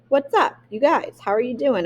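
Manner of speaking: trying slang. Retold or imitated. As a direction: savour the new American slang. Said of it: "adapting to the language".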